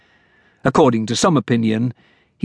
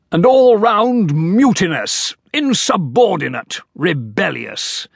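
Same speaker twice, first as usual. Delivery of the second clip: blustering general; 7 semitones higher than usual. Acted. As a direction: puff up like an indignant old soldier. General character voice.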